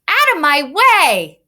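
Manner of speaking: loud, slow, high shouted line; angry shout. Shown as a demonstration. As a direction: yell it like a furious driver stuck in traffic. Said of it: "Let's try to read it together".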